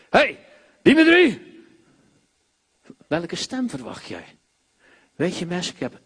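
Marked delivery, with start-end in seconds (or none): 0.1-1.5 higher and louder, calling out. Retold or imitated. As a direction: shout the name across the room. Imitating a loud calling voice. (luide hoge roep)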